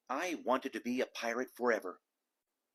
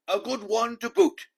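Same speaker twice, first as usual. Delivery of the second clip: much higher, louder crew chorus; crew agreeing; 11 semitones higher, 11 dB louder than usual. A narrator's reading. Pirate crew loudly echoing their captain. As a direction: squawk it back as the whole crew. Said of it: "the others agreed".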